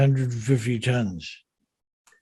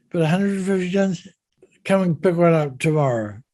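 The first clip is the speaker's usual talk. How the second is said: higher-pitched quote of an unfazed yard man; retold Scottish engineer; 4 semitones higher than usual. Engineer dismissing the keel's weight, lightly acted retelling. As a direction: lightly voice a Scottish engineer, barely attempting the accent. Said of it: "I can't do the Scottish accent".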